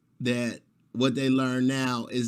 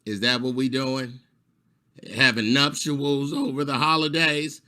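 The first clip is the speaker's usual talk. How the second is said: full-blown attitude. Retold or imitated. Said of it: "full-blown attitude like".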